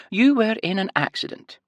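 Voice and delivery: high sing-song Scottish lilt; explaining high nurse. A narrator's reading. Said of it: "the nurse explained".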